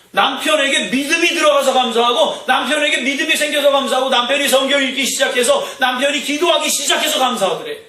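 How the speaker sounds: high, driving preacher's cadence; impassioned preaching. Real, not acted. Preacher recounting a wife's thanks to the congregation, impassioned. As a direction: pile up the reasons in a high, insistent chant-like run.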